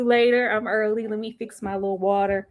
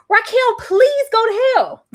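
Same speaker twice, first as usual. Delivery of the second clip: laughing curse; 11 semitones higher, 8 dB louder, slower than usual. Real, not acted. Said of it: "venting at character".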